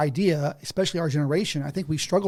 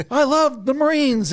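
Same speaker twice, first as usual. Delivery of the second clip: laughing; 10 semitones higher, 4 dB louder, slower than usual. Real, not acted. Laughing about Marines.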